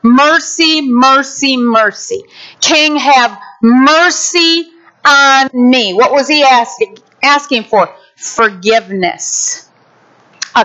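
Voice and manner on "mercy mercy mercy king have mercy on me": mild mock plea for mercy; lightly acted begging, drawn out; pleading servant. Servant begging the king for mercy, mildly pleading. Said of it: "started crying out".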